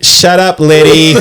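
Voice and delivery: high mock little-girl outburst. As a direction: pipe up as an imitated little sister. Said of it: "the little girl, is like".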